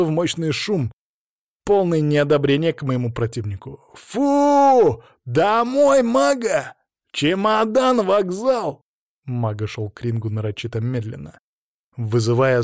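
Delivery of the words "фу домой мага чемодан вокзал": high, loud jeering shouts; booing crowd. Acted. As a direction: jeer like an angry stadium crowd. Hostile crowd booing the opponent.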